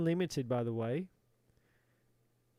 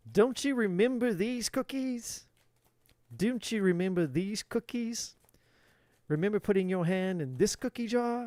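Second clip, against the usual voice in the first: mock confrontation; 4 semitones higher than usual. Imagined confrontation with the man.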